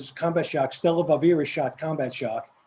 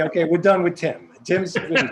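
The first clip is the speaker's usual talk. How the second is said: laughing; 4 dB louder than usual. Retold or imitated. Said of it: "And I'd say".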